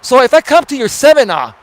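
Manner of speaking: seminar said as semi-NAH, no final R; imitated mispronunciation. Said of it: "it sounds like he's saying seminar".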